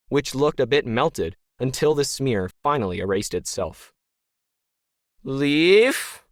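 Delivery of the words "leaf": demanding. A narrator's reading. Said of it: "Ken demanded again".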